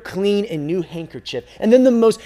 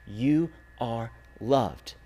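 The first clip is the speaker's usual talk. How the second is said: very slow and gentle, a little softer; tender; 7 semitones lower, 7 dB quieter, much slower than usual. A narrator's reading. Rag man to the hurt little girl, slow gentle comfort. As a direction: reassure her word by word.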